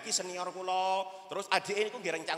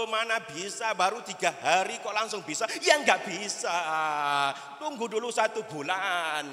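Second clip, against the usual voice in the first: higher, sing-song "Loh, loh" kiai voice; scolding kiai; 3 semitones higher than usual. Retold or imitated. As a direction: chide the student like a stern teacher. Kiai scolding homesick student.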